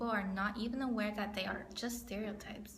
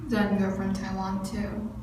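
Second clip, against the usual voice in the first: put-on Spanish accent; 8 dB louder than usual. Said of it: "in this really thick Spanish accent".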